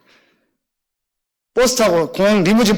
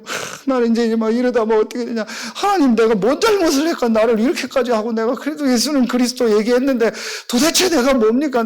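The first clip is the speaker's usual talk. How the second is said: mildly pitched-up, plaintive retold prayer; tearful lament; 2 semitones higher than usual. Pastor alone complaining to God, retold tearful lament. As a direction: plead with God, close to mock tears. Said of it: "그거 막 울음이 나더라고".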